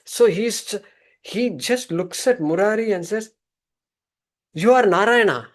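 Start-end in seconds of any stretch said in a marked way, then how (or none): 4.5-5.5 awed declaration. Acted. Guru reveres the barber.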